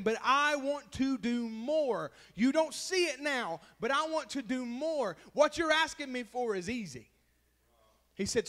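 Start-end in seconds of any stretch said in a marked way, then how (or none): 0.0-7.1 preaching God's reply. Retold or imitated. Preacher voicing God answering a begging believer, loud. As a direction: let God's answer ring out.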